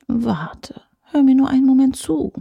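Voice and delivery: hushed, pressing ad voice; urgent whisper. Acted. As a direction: coax her to stay, under the breath. Companion pleads, breathy.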